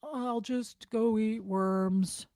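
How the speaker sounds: very slow, lightly voiced sulky whine; a hint of a pouting child; mock mopey sulker. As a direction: play a sulking kid fishing for pity. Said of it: "what I say to people if they're like".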